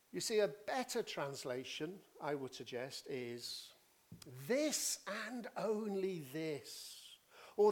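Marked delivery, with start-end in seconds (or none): 4.5-7.0 slow, weighty emphasis on each word; deliberate, emphatic rendering; emphatic declaration. Shown as a demonstration. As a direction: drive home "this and only this", slowly. Voices an emphatic suggested translation.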